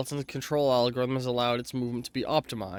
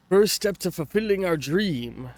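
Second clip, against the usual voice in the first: slightly higher, badly faked Australian accent; amateur Aussie accent, reading aloud; attempted Australian accent; 4 semitones higher than usual. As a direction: have a go at sounding Australian. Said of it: "I cannot do an Australian accent".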